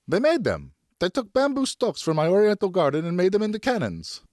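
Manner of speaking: furious mother venting; angry wife. Acted.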